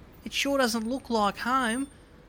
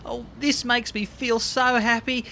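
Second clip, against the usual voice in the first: ordinary talk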